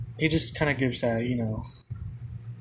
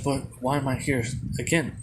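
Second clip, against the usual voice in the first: usual speaking voice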